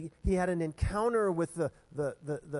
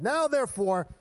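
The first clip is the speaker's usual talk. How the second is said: loud, raised, hammed-up preacher voice; good preacher's accent; 4 semitones higher, 6 dB louder than usual. Pastor voices the verse as a good preacher, mock accent. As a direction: proclaim it in a put-on preacher accent. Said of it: "I don't know what accent he had".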